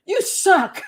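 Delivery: playful mock insult, laughing; teasing jab. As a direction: rib your partner through a laugh. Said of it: "my partner goes".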